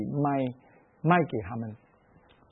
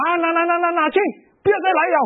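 dismissive vendor; 11 semitones higher than usual. Retold or imitated. Vendor tossing coins at the old woman, contemptuous and dismissive. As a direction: shoo her away impatiently. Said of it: "就讲".

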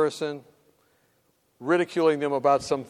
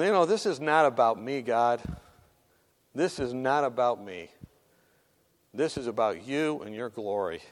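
lower, subdued praying voice; hushed prayer; 7 semitones lower, 4 dB quieter than usual. Retold or imitated. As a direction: pray it low, as a humble reminder to oneself. Retells his quiet prayer to God.

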